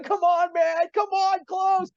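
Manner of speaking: high, panicky, half-joking plea; mock panic. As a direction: beg the elevator door to shut. Hitting the elevator button, fleeing.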